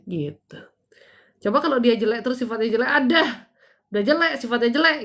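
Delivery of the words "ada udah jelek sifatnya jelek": higher, louder mock scorn; mocking gossip. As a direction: sneer at her like gossiping neighbours. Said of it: "gitu kan kita bilang ya". (nada mengejek, lebih tinggi dan keras)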